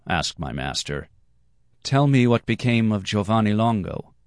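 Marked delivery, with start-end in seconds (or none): 1.8-4.1 lightly raised, youthful pitch; a hint of a small, higher voice. A narrator's reading. Boy asks the men about Giovanni Longo, small voice. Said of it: "I asked in a small voice".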